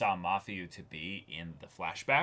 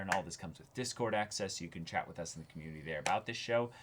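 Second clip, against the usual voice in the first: upbeat outro read; 3 semitones higher, faster than usual. Acted. Host signing off the episode to viewers, upbeat promo read. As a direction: sell the Patreon to the viewers. Closing the episode, plugging Patreon.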